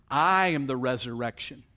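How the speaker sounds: solemn declaration. Acted. Jesus declaring to Martha, loud and solemn. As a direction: proclaim it with authority.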